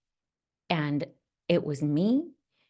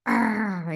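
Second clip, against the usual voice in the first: growl. Retold or imitated. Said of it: "it was like".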